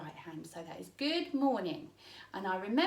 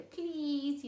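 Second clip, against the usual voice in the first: "Please" drawn out with a higher pleading lift; 5 semitones higher than usual. Shown as a demonstration. Sign teacher showing parents the pleading please. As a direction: beg lightly like a child asking. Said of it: "it's almost like we're".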